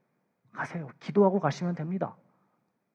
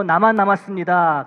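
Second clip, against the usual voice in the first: louder, forlorn cry; Elijah's lament; 2 semitones higher, 10 dB louder than usual. Acted. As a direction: cry out alone and abandoned. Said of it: "엘리야는 또 이렇게 말했지요".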